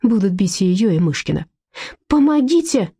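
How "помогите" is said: вопль. A narrator's reading. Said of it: "завопила она". (громкий высокий вопль о помощи)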